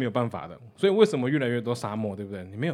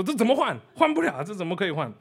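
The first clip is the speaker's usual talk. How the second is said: aghast; 5 semitones higher, 4 dB louder than usual. Retold or imitated. Operator exclaims.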